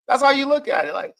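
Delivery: ordinary talk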